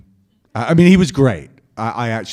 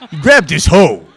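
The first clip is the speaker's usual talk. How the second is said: louder and higher, laughing through the joke word hoe; laughing pun take; 7 semitones higher, 12 dB louder than usual. Acted. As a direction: sell the double meaning with a laugh. Corrected right after with uh, no.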